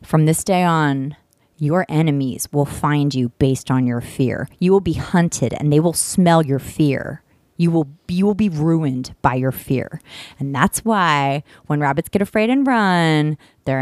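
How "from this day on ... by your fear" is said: witch's curse. Acted. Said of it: "the witch says".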